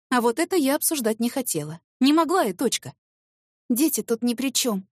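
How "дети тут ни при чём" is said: ordinary delivery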